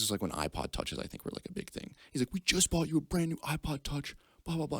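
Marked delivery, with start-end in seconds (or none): 2.3-4.8 higher-pitched exasperated mock rant; scolding dad impression. Dad berating his crying son, high mock scolding. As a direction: imitate a parent's incredulous telling-off.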